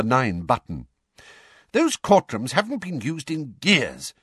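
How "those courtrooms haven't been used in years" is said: angrily. A narrator's reading. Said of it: "said Mister Weasley angrily".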